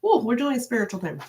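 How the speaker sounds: lightly put-on eager cat voice; excited cat. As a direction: playfully voice the cat's excitement. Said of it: "She gets excited. She's like".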